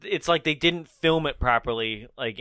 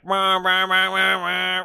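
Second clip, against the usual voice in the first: loud, higher imitated engine roar; urgent car noise; 5 semitones higher, 4 dB louder than usual. Shown as a demonstration. Host showing how the chase should sound, urgent car roar. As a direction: imitate a car bearing down hard. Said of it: "it should be like".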